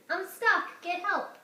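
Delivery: put-on stuck child calling out; calling for help. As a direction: shout down for help. Tilly stuck up tree.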